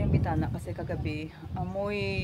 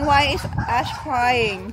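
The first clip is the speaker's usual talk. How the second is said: concerned call; 5 semitones higher, 9 dB louder, much slower than usual. Real, not acted. Mother hears child is crying.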